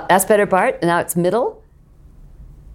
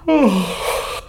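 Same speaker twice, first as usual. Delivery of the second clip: fake yawn sigh. Shown as a demonstration. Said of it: "we're going to fake yawn".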